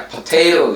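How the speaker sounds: "potato" with a marked middle T syllable; "potato" as po-TAY-lo; accented pronunciation. Shown as a demonstration. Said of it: "Nah sama ya".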